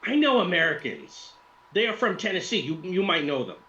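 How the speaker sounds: put-on high-pitched Russian accent; excited put-on Russian woman; Russian woman influencer, delighted. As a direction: exclaim brightly in a high Russian voice.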